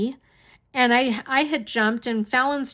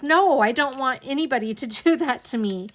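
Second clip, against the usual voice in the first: laughing; 3 semitones higher, 3 dB louder than usual. Real, not acted. Laughing while answering aunt.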